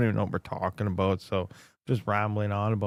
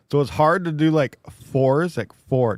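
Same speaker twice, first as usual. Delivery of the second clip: lisping without front teeth; missing front teeth, slurred; toothless; 3 semitones higher, 5 dB louder than usual. Real, not acted. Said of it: "Do I sound funny when I say four?".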